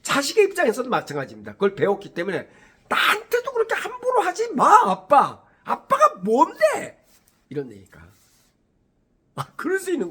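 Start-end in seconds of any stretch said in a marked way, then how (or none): 2.9-7.0 high, shrill-free mock child, rising in pitch; defiant child talking back. Child mouthing off to dad, high defiant mock voice. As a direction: play the kid sassing dad, much higher and slower at the end.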